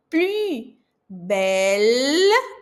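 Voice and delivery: "Plus" com boca de U e som de I; lábios em bico no "plus"; rounded u. Shown as a demonstration. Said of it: "Boca de U, som de I". (plus com biquinho francês)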